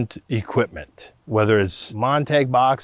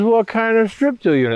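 much higher, keen; eager question; 10 semitones higher than usual. Retold or imitated. Eagerly quizzing brothers about their strip till unit. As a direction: ask with eager interest.

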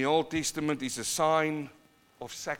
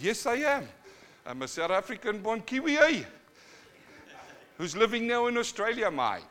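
high, lilting Kiwi banter; playful retold reply; 8 semitones higher, 4 dB louder than usual. Preacher answers a Maori bro he met, high playful banter. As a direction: act out a chummy answer, pitched up.

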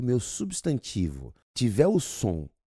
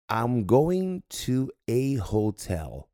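slow demo; much slower than usual. Shown as a demonstration. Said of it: "ele é sempre pro singular".

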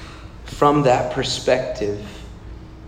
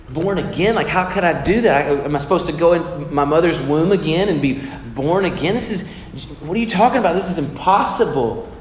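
incredulous, rising protest; lightly acted frustrated Nicodemus; mock frustration; 2 semitones higher than usual. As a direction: play the baffled skeptic. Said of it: "he responds with some frustration".

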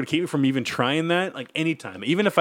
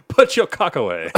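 Michael Caine butler; 2 semitones lower than usual. Pretend. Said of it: "I'm Michael Caine".

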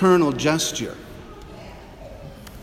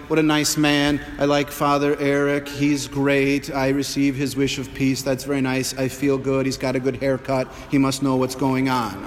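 pleased parishioner. Retold or imitated. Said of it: "You might say".

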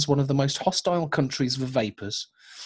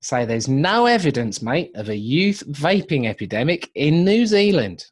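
hammed-up Australian newsreader; Australian accent. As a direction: read the news in a put-on Aussie accent. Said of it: "that's my Australian news".

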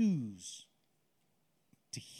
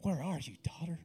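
voice of God; 3 dB louder than usual. Acted. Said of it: "the voice of God saying".

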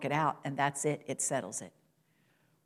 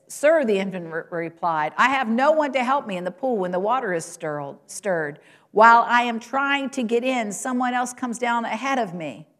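high, louder pleading voice of the invalid; pleading sick man; 5 semitones higher, 4 dB louder than usual. Acted. Preacher voicing the man at the pool, pleading. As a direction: beg like a man left behind at the pool.

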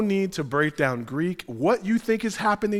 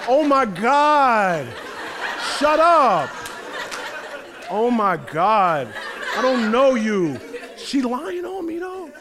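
high laughing mock denial; 6 semitones higher, slower than usual. Peter brushing off the servant girl, laughing high mock denial. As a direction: squeal it out, laughing, as if caught lying. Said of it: "He's like".

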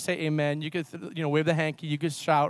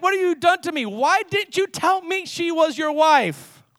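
high indignant demand, slowing at the end; Pharaoh's sharp accusation; 8 semitones higher, 4 dB louder than usual. Acted. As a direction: confront him as a wronged king. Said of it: "accused him sharply".

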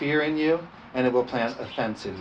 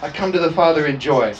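raised, ringing scripture reading; emphatic scripture preaching; 4 semitones higher, 5 dB louder than usual. Acted. Pastor reading Paul's letter to the church, emphatic preaching. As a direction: preach the verse out with firm volume.

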